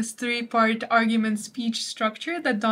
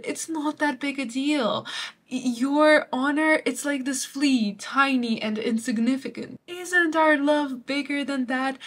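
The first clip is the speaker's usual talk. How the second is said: mock coaxing suitor; 3 semitones higher than usual. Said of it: "He's saying".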